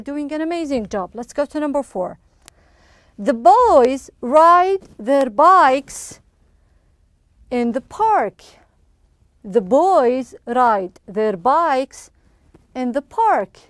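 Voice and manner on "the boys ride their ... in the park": very slow, word by word; slow model reading. Shown as a demonstration. Teacher reading sentence four twice to pupils, very slow and measured. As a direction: space the words out for learners.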